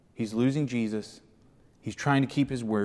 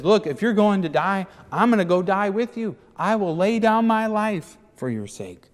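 higher, earnest promise; fervent vow; 8 semitones higher than usual. Acted. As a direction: swear loyalty with passion. Peter vowing to die.

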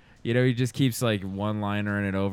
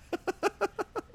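whispered laugh; 6 dB quieter than usual. Real, not acted. Laughing after whispered line.

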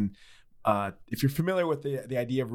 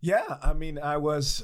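hoarse voice breaking; voice cracking; 3 semitones higher, slower than usual. Real, not acted. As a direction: let the sick voice crack. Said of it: "excuse me as I crack".

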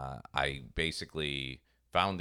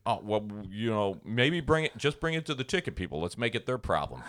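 mock lazy guard; 3 semitones higher than usual. Guard dodging work, voiced by a storyteller with a hint of lazy guard. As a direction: shrug it off onto someone else, lightly mocking.

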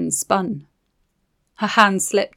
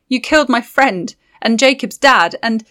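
angry; 4 semitones higher, 7 dB louder than usual. Acted. Layla accuses the witch.

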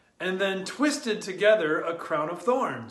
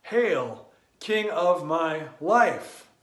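reverent honor; slower than usual. Acted. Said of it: "in deep honor and joy".

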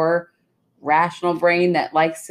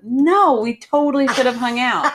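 louder and higher, laughing through it; eager agreement; 7 semitones higher, 4 dB louder than usual. Retold or imitated. Retelling how she answered her old friend, eager and laughing. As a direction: gush the reply like it was obvious all along. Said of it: "I was like".

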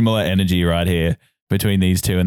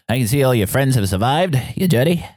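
put-on robot boy; 5 semitones higher than usual. Robot boy greets the party.

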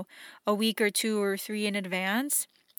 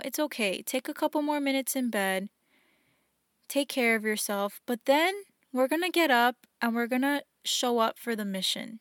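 compassionate inner voice. Retold or imitated. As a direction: soothe yourself kindly like a loving friend. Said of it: "that loving, compassionate voice".

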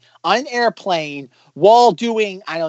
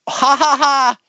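mock laugh; 8 semitones higher, 4 dB louder, slower than usual. Shown as a demonstration. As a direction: fake ha ha ha. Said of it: "shoveling ha, ha, ha's".

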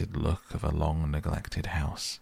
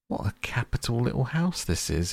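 bright call, pitched up; cheerful hearty call, higher; 6 semitones higher than usual. Acted. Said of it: "he called out cheerfully".

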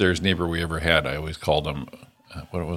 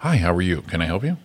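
phone voice. Retold or imitated. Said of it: "he'd get on the phone".

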